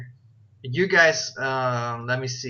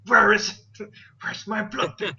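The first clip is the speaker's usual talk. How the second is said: a lightly voiced Magus muttering his search aloud, pitched up; talking aloud to himself; 7 semitones higher, 5 dB louder than usual. Game master voicing Magus searching for his blood pit, lightly acted. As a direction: play the TV-show habit of saying your thoughts out loud. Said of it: "T V show".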